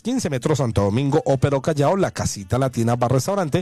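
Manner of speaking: upbeat restaurant ad read; radio ad read. Acted. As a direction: sell it like a live radio spot. Host reads restaurant ad.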